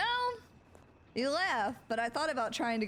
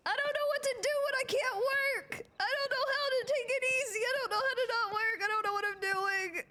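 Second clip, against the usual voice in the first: high whiny lament; 14 semitones higher, 4 dB louder than usual. Acted.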